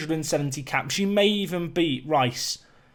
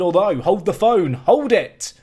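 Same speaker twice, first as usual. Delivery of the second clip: sudden excitement; 6 dB louder than usual. Real, not acted. Commentator spotting a chance, excited burst. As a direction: stop everything, something's happening.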